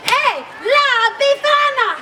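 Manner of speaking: high, drawn-out hailing call; loud call. Acted. Young shepherd runs in to hail La Befana, loud call. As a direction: call out slowly to someone across the village. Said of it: "he says very loudly".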